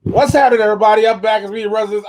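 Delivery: high, loud announcer-style greeting; hollow podcast intro. Retold or imitated. Host replaying his botched recording's intro to co-host, hollow and loud. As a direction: call it out as if away from the mic. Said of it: "when I downloaded the audio and went to edit".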